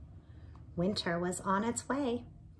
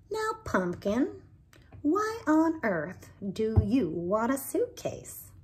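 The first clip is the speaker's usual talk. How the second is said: put-on fond, slow old-lady voice, louder; old Maybelle; 2 semitones higher, 5 dB louder than usual. Maybelle asks Binkle why he needs a suitcase, fond and slow. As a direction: tease the little one gently and slowly.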